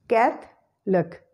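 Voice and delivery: slow "Catholic" in two parts, CATH, lick; schwa eliminated. Shown as a demonstration. Teacher drilling the hack, "Catholic" slowly split as CATH-lick. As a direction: split "Catholic" with no middle vowel. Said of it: "schwa sound is eliminated".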